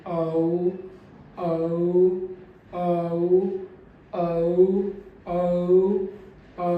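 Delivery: औ with a long, loud first part; first vowel long and loud. Shown as a demonstration. Teacher stresses the first vowel of औ. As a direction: lean on the start of औ. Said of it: "पहला vowel मेरा लंबा रहेगा और ऊंची ध्वनि".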